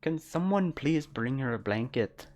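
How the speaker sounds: put-on light Minnesotan accent with a pinch of Scottish; Canadian Minnesotan accent. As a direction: imitate a Canadian Minnesotan lilt, a little Scottish. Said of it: "that sounds like a specific accent".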